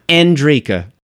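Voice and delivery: Andrika said crisply with a short E sound; name pronounced clearly. Shown as a demonstration. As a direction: say Andrika clean and quick. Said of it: "try one more time".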